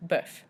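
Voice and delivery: bœuf with a rounded er vowel, then F; final F sounded. Shown as a demonstration. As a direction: say bœuf as French buhf. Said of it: "we pronounce the F at the end".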